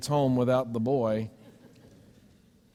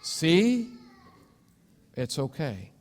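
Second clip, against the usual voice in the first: gentle reassurance; slower than usual. Pretend. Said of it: "God's had to walk over and go".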